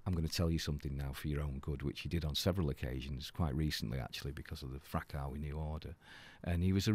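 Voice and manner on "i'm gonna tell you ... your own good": lower, softer voice of a mentor; serious, proper advice. Retold or imitated. Father figure advising the band, softly serious. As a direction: drop the act and advise earnestly. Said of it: "changed from bullshit mode to proper".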